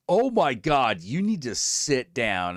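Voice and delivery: hammed-up buildup to big news; dramatic friend. Friend warns her to brace for the story. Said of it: "he was like".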